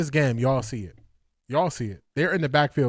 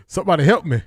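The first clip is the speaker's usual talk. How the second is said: louder, higher cry for help; mock plea; 4 semitones higher, 5 dB louder, faster than usual. Fan begging viewers for help after a nerve-racking game, mock plea. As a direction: playfully beg to be rescued.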